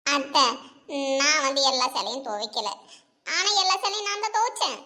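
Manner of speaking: a scared aunt pleading, babbling her confession; lightly voiced fearful mother-in-law; frightened aunt. Frightened aunt confessing to her son-in-law, pleading and babbling.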